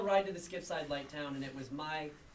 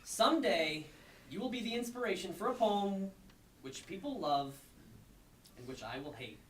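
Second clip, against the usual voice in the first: performed poem; 3 semitones higher than usual. Acted. Poet reading ninety-nine unpunctuated lines, emphatically declaimed. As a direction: punch the phrases out, easing off for asides.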